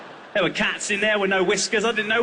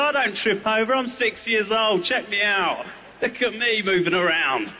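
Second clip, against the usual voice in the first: put-on defiant kid; 5 semitones higher than usual. Kid denying tripping.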